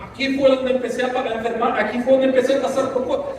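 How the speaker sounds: lightly voiced complaint to the Master; man in the footprints story asking the Lord, mild pleading; distraught man. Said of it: "el hombre le dice".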